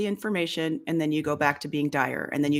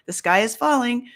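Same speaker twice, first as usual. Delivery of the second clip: mock panicky Chicken Little voice, rising on the sky is falling; hammed-up alarm; fearful mind; 4 semitones higher than usual.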